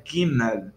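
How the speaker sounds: Gimel with the final L made by the tongue on the palate. Shown as a demonstration. Teacher showing students the Hebrew L in Gimel, tongue on the palate. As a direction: curl the tongue up to end Gimel on a true L. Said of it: "a língua lá no céu da boca".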